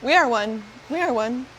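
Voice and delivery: short repeated phrases, pitched in waves; odd-patterned hive mind. Acted. Nexus speaking to the group as one, oddly patterned chant. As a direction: repeat it like a collective alien mind. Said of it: "a pretty funny pattern of talking there".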